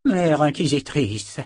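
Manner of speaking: slow, deliberate address; carefully weighed words. A narrator's reading. Sorcerer cautions the Mother Inquisitor, carefully weighed words. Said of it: "pesant soigneusement ses mots".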